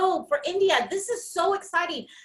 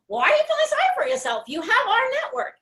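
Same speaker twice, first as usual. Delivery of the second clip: much higher and very fast, a playful scolding; mock incredulous friend; 10 semitones higher, much faster than usual. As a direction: rattle it off as a disbelieving friend. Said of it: "And Jana's like".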